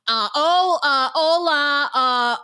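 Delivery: mocking someone lost between greetings; mock confused tourist. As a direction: fumble between languages, hammed-up. Fumbling foreign greetings mockingly.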